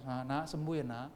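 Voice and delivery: soft, soothing fatherly murmur; grieving tender father. Acted. Father speaking to his sick child, softly tender. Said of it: "seorang bapak lihat anaknya kalau sakit".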